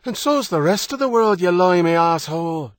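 furious Irish yell, pitched high; angry shout. A narrator's reading. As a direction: hurl the insult up at the ship. Furious shouting exchange at sea.

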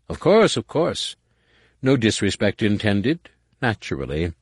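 fawning, placating courtier; smooth over the offence; oily apology. Acted. Nomanor backpedals.

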